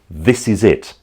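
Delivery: light British accent on "This is it". Shown as a demonstration. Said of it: "they might say".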